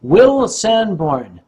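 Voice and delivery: name drawn out at half speed; slow announcement. Shown as a demonstration. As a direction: stretch "Will Sanborn" out slowly for note-takers. Announces confirmed name for note-takers.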